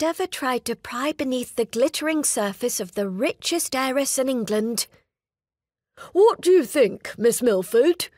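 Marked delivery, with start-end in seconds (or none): 6.1-8.1 a keen suitor asking eagerly. Acted. Suitor speaks, voiced character.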